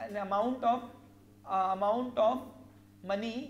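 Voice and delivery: slow, word by word dictation. Shown as a demonstration. Teacher dictating a definition to students, slow and measured. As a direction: spell it out so students can write.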